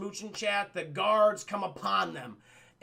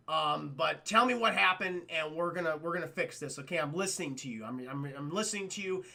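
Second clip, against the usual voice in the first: fatherly reassurance; 4 semitones lower than usual. Retold or imitated. Sultan comforts his crying daughter, calm reassurance. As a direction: gently promise to listen.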